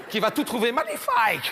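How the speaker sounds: mock Portuguese-accented gushing. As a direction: put on a Portuguese accent and exclaim. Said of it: "un, un accent portugais". (accent portugais exagéré)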